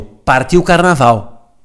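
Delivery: put-on slow, drawn-out Brazilian-accented cheer; mock Brazilian Portuguese. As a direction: stretch it like a Brazilian party cry. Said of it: "o meu preferido de todos". (a imitar o sotaque brasileiro, arrastado)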